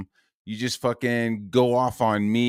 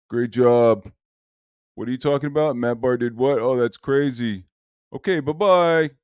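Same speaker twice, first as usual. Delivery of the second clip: hammed-up fake-sweet congratulations; mock sugary praise. Streamer mocks Ethan fawning over Liam, sugary. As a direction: gush mockingly, over-sweet.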